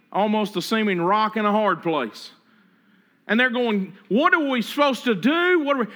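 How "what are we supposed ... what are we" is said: higher, rushed panicky question; mock frantic Israelites; a little frantic. Israelites at the Red Sea, a touch frantic. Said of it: "they're getting a little frantic".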